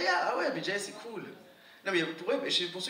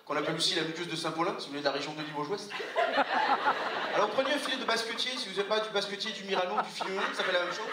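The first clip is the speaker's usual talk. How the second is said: French TV chef; 3 semitones higher than usual. Acted.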